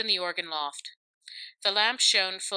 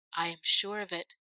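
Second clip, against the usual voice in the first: ordinary delivery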